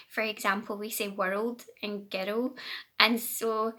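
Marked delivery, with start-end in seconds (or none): 1.1-2.6 put-on "world" and "girl" in a drawn-out Scottish accent; Scottish pronunciation. Shown as a demonstration. Knitter showing viewers how Scots talk, Scottish pronunciation. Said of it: "we say things kind of funny".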